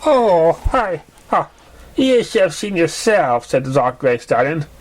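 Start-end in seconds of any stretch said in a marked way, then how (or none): 0.0-3.5 higher, slower, gleeful teasing; teasing friend pony. A narrator's reading. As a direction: tease him, amused at his fright.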